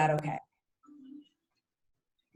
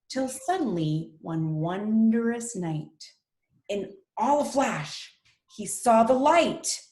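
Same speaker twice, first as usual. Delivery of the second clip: lilting, drawn-out storybook reading; story narration; 2 semitones higher, slower than usual. Acted. Teacher reads a rhyming pig story to her class, expressive narration. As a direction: read it to children, lingering on key words.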